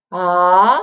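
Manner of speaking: ah sliding up; rising second tone on ah. Shown as a demonstration. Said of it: "like a rising line".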